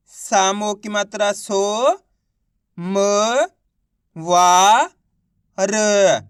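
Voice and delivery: सो, म, वा, र held long, one at a time; spelling out syllables. Shown as a demonstration. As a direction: sound out सो, म, वा, र with clear gaps. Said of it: "एक एक अक्षर का उच्चारण". (सो, म, वा, र को अलग-अलग खींचकर बोलना)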